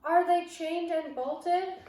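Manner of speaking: slow, high, loud foreign-witch voice; drawn-out menacing witch question; harsh witch demand. Acted. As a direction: demand it like a tyrant queen. Grand High Witch questions audience.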